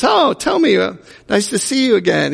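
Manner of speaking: high, bright-eyed trainer greeting; mock cheerful trainer. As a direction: play the eager gym trainer. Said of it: "the trainer says".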